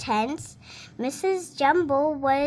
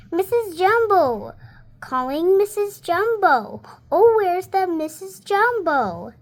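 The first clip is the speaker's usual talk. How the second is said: high, louder call for Missus Jumbo; 4 semitones higher, 4 dB louder than usual. Acted. Stork calling down the train for Missus Jumbo, loud. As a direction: call out across the train car.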